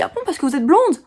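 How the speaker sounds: high mock old man asking; old man's voice. Mocking the old man who thinks she's blonde, high voice. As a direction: lift the voice to play the old man. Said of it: "Il me dit".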